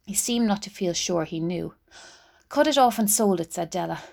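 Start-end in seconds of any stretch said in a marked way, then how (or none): 2.5-3.5 insistent. Acted. Della insists to Jim.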